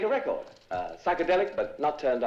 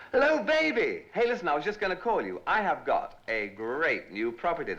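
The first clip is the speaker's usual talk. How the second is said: slick phone greeting; 6 semitones higher than usual. Acted.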